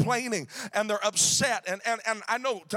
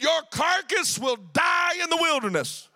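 redneck God; 5 semitones higher than usual. Retold or imitated. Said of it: "sounds like a redneck wrote it".

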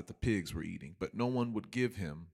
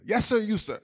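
much higher, louder, pompous professor; professor calling on him; 11 semitones higher, 6 dB louder than usual. Retold or imitated. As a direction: point and call on the student like a stiff professor. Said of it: "That's what he said".

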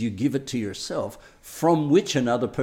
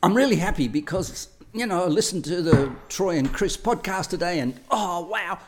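gushing excitement; 6 semitones higher, 3 dB louder than usual. Retold or imitated. Acted gushing partner.

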